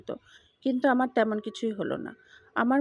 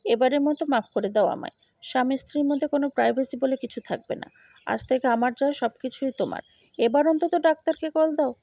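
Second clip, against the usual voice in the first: louder, desperate plea to his wife; pleading shout; 3 dB louder than usual. Retold or imitated. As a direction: beg loudly, rising at the end. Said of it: "সে চিৎকার করে বলল". (চিৎকার করে অনুনয়)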